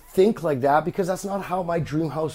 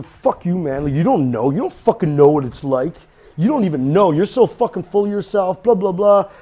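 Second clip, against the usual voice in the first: louder imitation of an angry heckler; mock angry listener; 5 dB louder than usual. Host mimicking a listener who hates him, louder mock rant. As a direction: jab back as the offended listener. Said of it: "then there's the".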